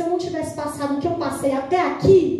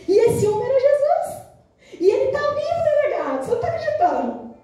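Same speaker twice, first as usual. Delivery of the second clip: rising fervor; 5 semitones higher than usual. Pretend. Imagined prisoner telling the police chief Jesus is alive, swelling to a high excited cry. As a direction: start calm, then climb into an ecstatic cry about Jesus.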